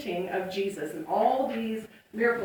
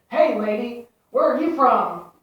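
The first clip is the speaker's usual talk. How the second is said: mock tough teen, louder and pushy; gruff tough-guy voice; 9 dB louder than usual. Teen boys on subway challenge lady, mock gruff. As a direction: put on a rough street-kid swagger. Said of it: "in this real gruff voice".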